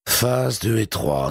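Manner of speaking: slow, weary sigh of a line; a sigh of resignation. A narrator's reading. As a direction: let it out on a tired breath. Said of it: "soupira Mathilde".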